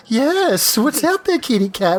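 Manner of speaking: talking to a pet. Retold or imitated. Player imitating Athora asking her cat, mock pet-talk. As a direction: rattle it off like cooing at a kitty. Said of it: "She's like".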